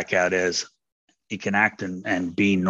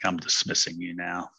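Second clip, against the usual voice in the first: dismissive tone; 5 dB quieter than usual. Retold or imitated. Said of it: "And that tone of voice, like".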